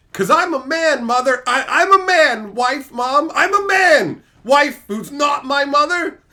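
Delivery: building to a hammed-up shout; mock defiant husband. Acted husband defying his wife.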